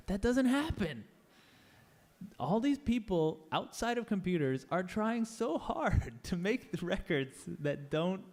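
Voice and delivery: high, slow, impassioned outburst; getting emotional. Real, not acted. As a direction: pour real indignation into it. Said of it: "I get emotional about this".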